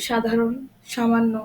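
স in সাধারণ, সামান্য sounded sh. Shown as a demonstration. Teacher recaps the rule, সাধারণ, সামান্য starting with sh. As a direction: say সাধারণ, সামান্য as "shadharon, shamanno". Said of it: "তালিবস্যর মতো উচ্চারণ হয়".

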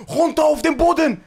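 loud barked order to get down; police command shout. Retold or imitated. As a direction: yell it like a raiding cop. (laut gebrüllter Polizeibefehl)

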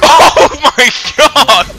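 high, loud, drawn out; excited shout. Real, not acted. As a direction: exclaim in amazed delight. Friend flung in game.

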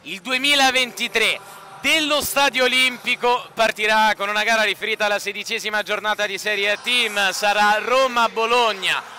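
slow, dramatic documentary-style voiceover; slow intro narration. Acted. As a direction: lay it out slowly like a season opener. Slow intro narration over music.

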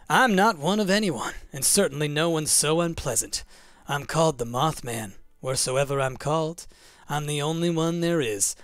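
lightly voiced, haughty mysterious creature; Mothman. Reads Mothman's lines aloud.

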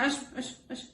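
whispered come-here to a pet; hushed coaxing whisper; whispered call. Real, not acted. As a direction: breathe the call softly. Calling the pet over.

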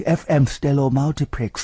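slow, smooth mock radio announcer; lightly parodied DJ purring the station tag. Shown as a demonstration. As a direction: croon it like a late-night FM host. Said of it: "น้ำเสียง เอฟเอ็ม".

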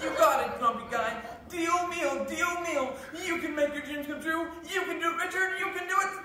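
peppy fitness host cheer; Richard Simmons. Acted. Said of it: "I'm Richard Simmons".

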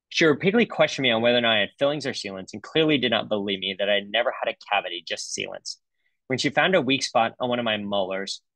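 a touch of mock-indignant patient; patient's voice. Dentist reads a cavity complaint to the audience as the indignant patient. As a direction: read the grievance as the patient, lightly acted. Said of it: "the voice of the patient".

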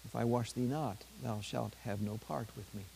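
understated gentleness, softening toward the end; quiet, mildly tender narrated quote; gentle reply. A narrator's reading. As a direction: answer gently, letting the voice sink. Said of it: "Jesus replied gently".

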